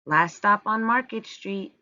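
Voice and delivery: lightly voiced driver calling the stop; bus driver calling out. A narrator's reading. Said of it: "Mister Dennis called".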